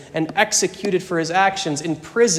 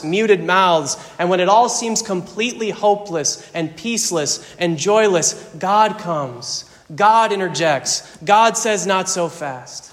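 mounting pulpit intensity; preaching build. Acted. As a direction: preach it, building to God's answer.

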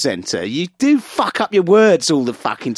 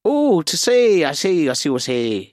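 put-on Irish accent.

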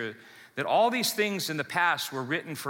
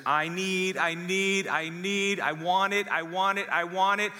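put-on higher, demanding spoiled-kid voice with a bratty push; whiny spoiled child; 4 semitones higher than usual. Preacher voicing a spoiled child demanding things from parents, higher and whiny. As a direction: play a spoiled kid stamping for what he wants. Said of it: "This is the kid that is so self- self-absorbed".

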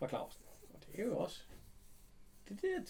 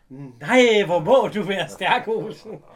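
loud, slow, gushing admiration; hammed-up flattery of a strong man; imitating Maja swooning over Olsen's strength; mock admiring; 5 semitones higher, 14 dB louder, much slower than usual. Maja flatters Olsen carrying box.

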